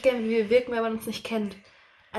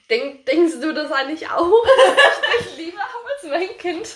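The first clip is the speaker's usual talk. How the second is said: imitating a mother; 7 semitones higher, 7 dB louder, slower than usual. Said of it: "schreibt sie mir dann nachher mal so".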